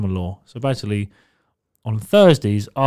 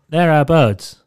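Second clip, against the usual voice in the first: louder, higher mock Scouse; attempted Scouse accent; 4 semitones higher, 7 dB louder, slower than usual. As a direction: repeat it in a badly imitated Liverpool Scouse accent. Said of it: "I can't do the accent".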